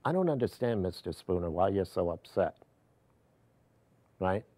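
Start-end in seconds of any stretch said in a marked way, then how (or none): 0.0-2.6 imitating a deadpan, unimpressed supervisor; retold deadpan line, on the soft side. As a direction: deliver it deadpan, as her words. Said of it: "deadpan voice and basically says".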